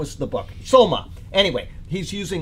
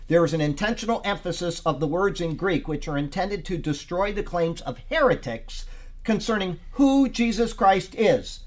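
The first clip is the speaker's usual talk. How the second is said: raised, weighty teaching read; preacher reading out a study note; emphatic read-aloud; 4 semitones higher than usual. Real, not acted. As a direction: read the commentary out with deliberate emphasis. Reads commentary aloud to group.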